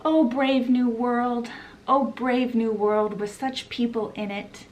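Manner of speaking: lightly acted awed recital; a touch of faraway wonder; faraway musing. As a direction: quote it dreamily, vowels held. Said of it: "John looks off and he's like".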